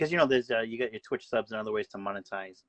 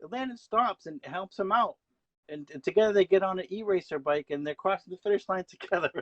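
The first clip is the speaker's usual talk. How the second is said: much higher, rising commentator excitement; excited race call; 8 semitones higher than usual. Pretend. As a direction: call the drama of a blown tire. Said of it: "how about you call the final half a lap of a race?".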